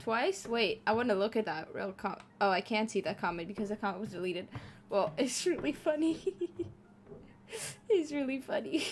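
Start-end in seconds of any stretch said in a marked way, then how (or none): 4.9-8.9 giggling through the words; laughing while speaking. Real, not acted. Laughing at a funny comment.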